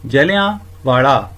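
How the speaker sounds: ਜਲਿਆਂਵਾਲਾ said slowly, syllable by syllable; slow spelling-out. Shown as a demonstration. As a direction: draw out ਜਲਿਆਂਵਾਲਾ slowly for the class. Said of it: "ਇਸ ਦਾ ਉਚਾਰਨ ਕਰੋ". (ਹੌਲੀ ਹੌਲੀ ਉਚਾਰਨ)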